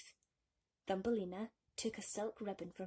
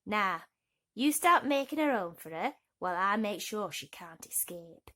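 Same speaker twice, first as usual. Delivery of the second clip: bossy toad; 6 dB louder than usual. Acted. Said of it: "snapped his mother".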